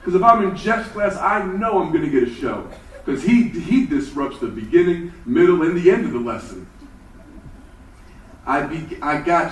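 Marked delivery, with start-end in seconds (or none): 0.0-6.7 put-on high, loud, eager kid voices; excited classmates. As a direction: gush like a kid hoping for a show. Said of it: "The kids were checking their schedule".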